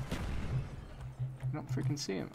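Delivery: slow, soft whisper; tense whisper while hunting. Real, not acted. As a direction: hush it as if the enemy could hear. Repeats while searching for enemy.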